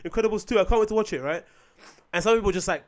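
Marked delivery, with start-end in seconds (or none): 0.0-1.2 higher, run-on mock gushing; overly excited. Acting out happy film fan, mock overexcited. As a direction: imitate someone who can hardly wait. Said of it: "when you're overly excited".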